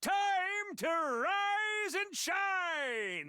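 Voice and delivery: high, slow, shouted morning call; cheery wake-up call. Acted. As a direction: bellow it like a chipper drill sergeant. Morning wake-up announcement to troops.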